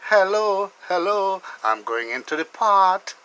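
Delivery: playful fish head voice. Pretend. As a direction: give the fish head a cheeky little voice.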